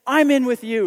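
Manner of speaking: a hint of an eager new follower; eager I'm in. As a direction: say I'm in with you like signing up on the spot. Imagined follower commits, louder.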